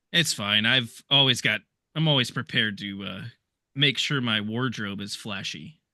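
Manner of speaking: lightly voiced unbothered show-off; Flash. Flash reassuring Gruff mid-splits, low and unbothered.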